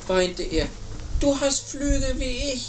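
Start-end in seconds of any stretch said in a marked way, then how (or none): 1.2-2.7 high-pitched little bird voice; little bird character. Acted. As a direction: pipe up as an eager little chick. Little bird talks to penguin.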